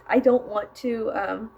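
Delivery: eating chips while talking; mouth full. Real, not acted. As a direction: talk through a mouthful of chips. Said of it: "sorry, I've been eating chips".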